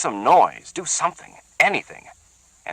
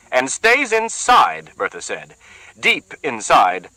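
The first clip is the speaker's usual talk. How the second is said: slow taunting; 6 semitones higher, 4 dB louder, slower than usual. Acted. Bertha taunting Sharkey.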